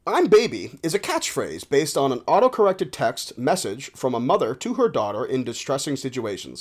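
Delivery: measured encyclopedia reading; read-aloud article. Acted. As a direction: read it out like a formal entry. Reads a web article aloud.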